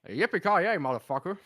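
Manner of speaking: put-on American action-movie accent. Copying a Die Hard line on request, mock American accent. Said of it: "Can you do that?".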